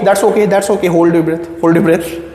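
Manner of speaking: normal talking voice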